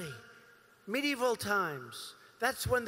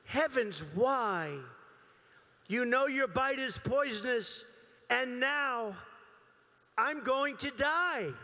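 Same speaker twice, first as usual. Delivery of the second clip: poem recital. Acted. Reading The Snake poem to the crowd, dramatic recital. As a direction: recite the fable with storyteller weight.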